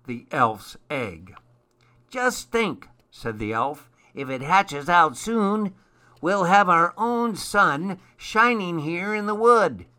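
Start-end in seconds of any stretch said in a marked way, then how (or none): 2.1-2.9 high, eager elf voice; excited elf. A narrator's reading. Elf imagines a sun chick hatching. 4.1-9.9 high, eager elf voice; excited elf. A narrator's reading. Elf imagines a sun chick hatching.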